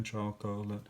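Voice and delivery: "Chocolate" said softly, syllables felt under the chin; sounding it out. Shown as a demonstration. Teacher demonstrating syllable counting, softly. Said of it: "My hand is underneath my chin".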